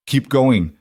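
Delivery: strained, pushed through clenched teeth; through gritted teeth. Acted. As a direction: force it out past gritted teeth. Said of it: "Lucian said through gritted teeth".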